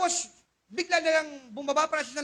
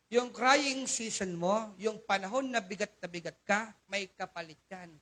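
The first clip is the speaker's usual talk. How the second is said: slowed right down, each phrase weighed; a slow, emphatic repeat for the congregation; slow and deliberate; 3 semitones lower than usual. Shown as a demonstration. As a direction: spell it out slowly so it sinks in. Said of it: "Inuulit ko ulit".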